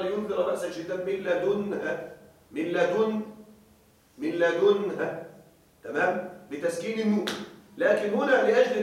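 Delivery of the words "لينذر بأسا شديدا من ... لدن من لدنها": "من لدنها" with a damma on the dal and a silent nun; alternate reading demo. Shown as a demonstration. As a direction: recite the other reading, "لدنها". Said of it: "قراءة أخرى". (قراءة أخرى "من لدنها" بتسكين النون)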